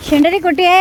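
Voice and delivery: high, loud cooing call to the dog. Real, not acted. Woman calling her dog, high loud cooing. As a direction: sing out a pet name, high and bright.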